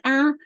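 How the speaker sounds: "ah" as the short vowel in bat; isolated vowel sound. Shown as a demonstration. Teacher modelling second syllable, "ah" sounded alone. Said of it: "vowel sound ah".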